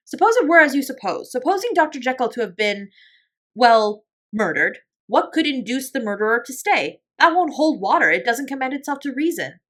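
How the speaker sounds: high, loud, reasoning protest; emphatic gentleman disputing the tale; sceptical lawyer, agitated. A narrator's reading. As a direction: argue against a dreadful idea, faltering before the worst word.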